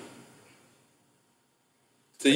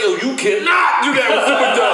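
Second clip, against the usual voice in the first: emphatic warning; 5 semitones higher than usual. Retold or imitated. Friends warning him off copying the act, emphatic high shout. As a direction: warn him off with force, voice pitched up. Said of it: "they fully warning me".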